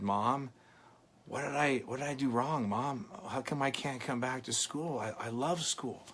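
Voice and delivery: put-on hushed, hurt little-boy plea to mom; small pleading child. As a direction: ask it quietly, like a confused child.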